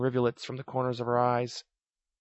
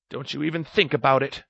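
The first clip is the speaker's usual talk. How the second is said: warning; 2 semitones higher, 5 dB louder than usual. Acted. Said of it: "she warned".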